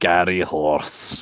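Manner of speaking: put-on non-specific Scottish accent. Asked what the nickname would be, a speaker names it in a non-specific scottish accent. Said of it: "It's a non-specific Scottish accent".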